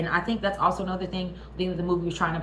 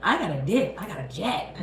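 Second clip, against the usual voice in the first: mock fleeing girlfriend; 2 semitones lower, slower than usual. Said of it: "She said".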